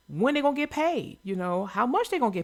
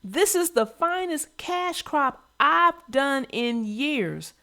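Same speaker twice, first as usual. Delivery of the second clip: quoting Farmer Ben; 4 semitones higher, slower than usual. Retold or imitated. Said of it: "and I quote".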